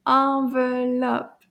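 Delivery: "Enveloppe" in three slow, even beats; syllable by syllable. Shown as a demonstration. Teacher confirming three syllables to class, slow counted beats. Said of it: "Trois syllabes".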